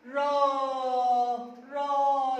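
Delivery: long, held RA in "را"; fatha sound. Shown as a demonstration. Teacher showing kindergartners the fatha sound, "را" held long and open. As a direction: open the mouth and stretch "را" as a long "raa". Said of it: "احط فتحة".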